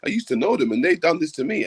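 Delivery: high mocking accuser whine. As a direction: parody a woman making a claim. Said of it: "someone coming ... saying".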